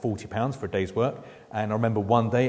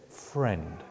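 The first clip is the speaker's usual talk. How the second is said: gentle rebuke; 5 semitones lower, 4 dB quieter than usual. Shown as a demonstration. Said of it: "it's a gentle rebuke".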